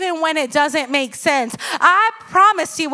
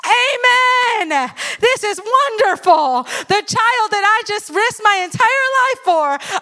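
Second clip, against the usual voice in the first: higher, sing-song fake delight; mock cheerful; 5 semitones higher, slower than usual. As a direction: ironic eager yes. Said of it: "first reaction was like".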